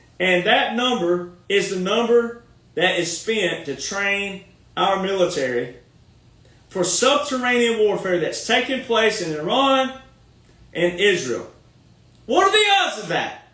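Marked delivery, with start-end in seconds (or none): 12.3-13.3 rapid, raised, fired-up, passionate voice. Speaker making an impassioned point to listeners, raised passionate voice. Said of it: "when I raise my voice like that".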